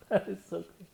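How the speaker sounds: breathy laugh through the words; laughing disbelief. Real, not acted. Reacting to the lyric, laughing in disbelief.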